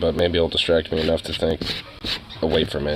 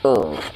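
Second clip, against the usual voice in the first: low groan. Real, not acted. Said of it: "little groany boy".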